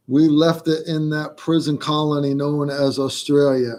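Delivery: lightly faked Australian accent; a hint of badly faked Aussie accent; fake Australian accent. Finishing Susan's joke about Australia, light fake Australian accent. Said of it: "never been good at a fake accent".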